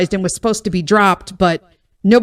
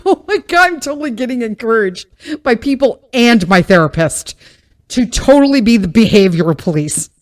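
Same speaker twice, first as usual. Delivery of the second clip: gleeful disbelief; 2 semitones higher, 3 dB louder than usual. Retold or imitated. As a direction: revel in being egged on. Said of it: "And I'm like".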